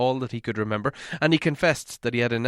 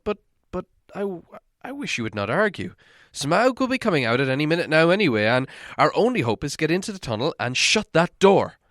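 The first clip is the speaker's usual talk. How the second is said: worried hobbit voice, raised higher; fretful hobbit fearing he said too much; Bilbo; 3 semitones higher than usual. Acted. Hobbit telling dwarves his worry, in a fretful higher voice.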